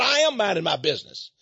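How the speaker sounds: retold angry retort. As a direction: stand your ground, loud. Retold quarrel with dog owner.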